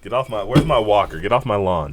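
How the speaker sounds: lightly voiced cranky old man; a hint of a grumpy old man. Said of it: "Old man yells at cloud".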